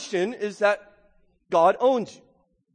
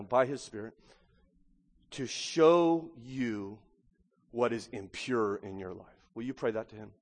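prayer leading; 5 semitones lower, 5 dB quieter than usual. Real, not acted. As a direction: guide the church gently into prayer. Leads silent prayer.

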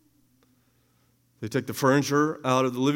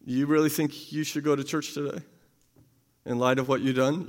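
accusing voice; 6 dB quieter than usual. Acted. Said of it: "there's an accusing voice that comes".

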